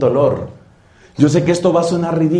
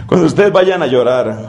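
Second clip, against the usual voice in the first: breathy laugh through the words, quick. Real, not acted. Preacher laughing at his own joke, repeating the line. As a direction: repeat it while laughing at yourself.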